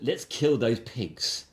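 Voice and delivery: put-on slow, drawn-out Brooklyn accent. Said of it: "in a proper Brooklyn accent".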